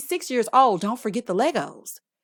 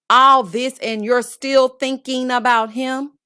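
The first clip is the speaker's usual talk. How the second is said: louder, slower disbelieving question; outraged; 2 semitones higher, 5 dB louder, slower than usual. Real, not acted. Host scolding Alexia, loud and slow. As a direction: demand it in disbelief.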